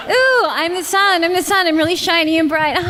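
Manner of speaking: grand sunny princess, tongue in cheek; Princess Celestia impression. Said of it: "here's my imitation of Princess Celestia".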